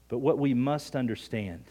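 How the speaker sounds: "must" given firm emphasis; stress on must. Real, not acted. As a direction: put the weight on "must". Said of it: "emphasize the word must".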